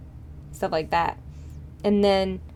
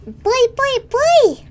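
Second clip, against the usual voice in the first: much higher and louder, rising to a shout; excited call; 7 dB louder, much slower than usual. Real, not acted. Streamer hails a newcomer to the chat, excited shout. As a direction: call it out like a cheer.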